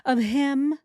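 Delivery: hammed-up mock disgust; mocking imitation. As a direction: parody her fake shame. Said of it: "She's so disgusting".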